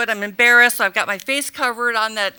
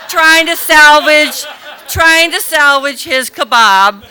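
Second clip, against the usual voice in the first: louder, slow, laughing through it; 5 semitones higher, 9 dB louder, slower than usual. Real, not acted. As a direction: laugh while telling it. Laughing at husband's priorities.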